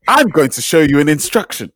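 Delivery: high, hammed-up English Instagram-story accent; mock a friend's proper English accent for social media, pitched well up; exaggerated English work accent, lifted high like a video tutorial; put-on work accent. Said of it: "that's the exact accent".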